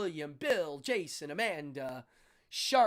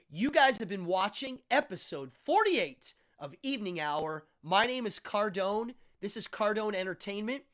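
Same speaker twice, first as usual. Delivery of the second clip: raised, louder host delivery; show sign-off announcer; 4 semitones higher, 6 dB louder than usual. Real, not acted. Host closing the episode for viewers, announcer-style sign-off. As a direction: announce the end of the show with energy.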